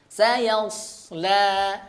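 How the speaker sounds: sayasla recited with clear letters; recitation demo. Shown as a demonstration. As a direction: read sayasla carefully. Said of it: "perhatikan pada kata sayasla". (sayasla dibaca jelas)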